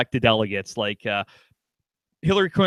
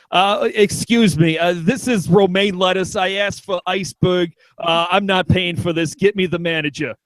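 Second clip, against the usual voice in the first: put-on grouchy old man; 2 semitones higher than usual. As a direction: complain like a fussy diner. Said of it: "a grouchy old man sending back food".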